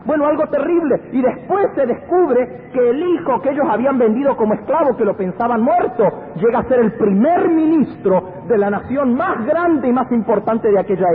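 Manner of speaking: high-pitched, gripping pulpit storytelling; full-force preaching. Acted. Preacher tells congregation of brothers selling a brother, impassioned high preaching.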